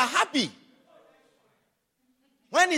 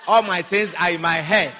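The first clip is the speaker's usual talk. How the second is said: laughing mock boyfriend; 9 semitones lower, 6 dB louder than usual. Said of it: "He says".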